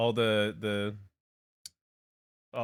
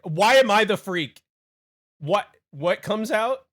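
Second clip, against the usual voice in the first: indignant protest; 7 semitones higher, 8 dB louder than usual. Real, not acted. Protesting chat's jab.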